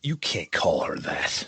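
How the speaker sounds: hushed, shocked whisper. Real, not acted. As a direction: whisper it so nobody overhears. Shocked at insult to PM.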